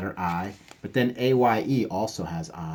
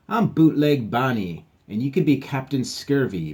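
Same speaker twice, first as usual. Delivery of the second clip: higher, louder grand introduction; proud pirate; 3 semitones higher, 5 dB louder than usual. Acted. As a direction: announce your pirate name with a flourish.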